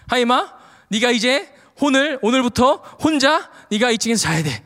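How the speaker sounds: retold fatherly ultimatum, firmly pressed; stern warning. Dad telling his son to sleep upstairs alone, sternly. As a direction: lay down the law to a child. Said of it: "엄중하게 이야기를 했어요".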